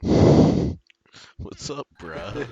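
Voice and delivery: laughing through the words; half-laughing greeting. Real, not acted. Laughing reply to the meme.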